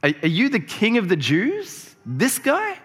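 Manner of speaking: can't believe this is the man; incredulous Pilate. Retold or imitated. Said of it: "he's like".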